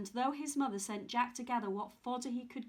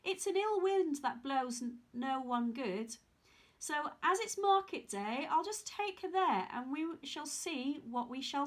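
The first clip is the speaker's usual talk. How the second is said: eager Jack; 4 semitones higher than usual. Acted. Jack voiced, excited.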